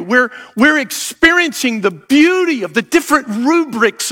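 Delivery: earnest, rising pastoral prayer. Acted. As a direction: pray over the congregation, building in fervour. Leads congregation in prayer.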